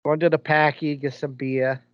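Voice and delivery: a milder second try at the Boston accent. Shown as a demonstration. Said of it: "That's exactly what it was like".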